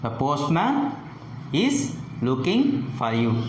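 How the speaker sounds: "postman" lifts, then "for you" falls; falling tone. Shown as a demonstration. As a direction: drop the pitch at the end on "you". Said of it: "the pitch falls at the end".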